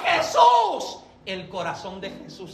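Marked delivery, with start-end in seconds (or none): 0.0-1.0 crying out. Acted. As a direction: call out his name in grief and longing. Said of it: "María llega llorando".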